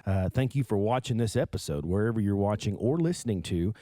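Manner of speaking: smooth radio host outro. Acted. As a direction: read it like a morning DJ. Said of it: "Kinda got my radio voice going there".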